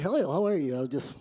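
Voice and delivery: lightly put-on code-switched office voice; work voice. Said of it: "We get to work and like".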